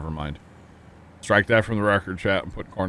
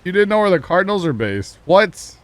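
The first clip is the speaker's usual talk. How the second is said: incredulous; 11 semitones higher, 8 dB louder than usual. Real, not acted. Viewer doesn't know Cardinals' base.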